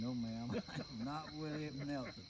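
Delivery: polite denial broken by a laugh; denying it while chuckling. Retold or imitated. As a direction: laugh through the no, ma'am. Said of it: "I said".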